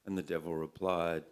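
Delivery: measured, performed poetry recital; poem reading. A narrator's reading. Poet reads a bush tale to an audience, recited. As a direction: read it out as a wry narrative poem.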